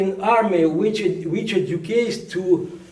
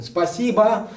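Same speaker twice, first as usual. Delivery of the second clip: a light put-on Russian accent on Спасибо; 3 semitones higher than usual. Shown as a demonstration. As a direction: say Спасибо the way a Russian local would. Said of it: "I tried to speak with Russian accent".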